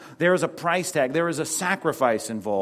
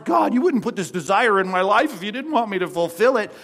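higher, louder, self-pitying plea to God; mock pleading prayer; 6 semitones higher, 5 dB louder than usual. Believer bargaining with God, higher and louder mock plea. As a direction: whine your claim at God. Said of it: "we're saying in our hearts".

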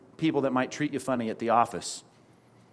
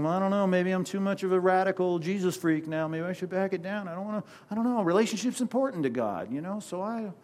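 higher, softer, hesitant trailing-off excuse; mock wavering believer; 4 semitones higher, 4 dB quieter than usual. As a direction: play the timid Christian backing down, voice pitched up and fading. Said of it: "we're saying".

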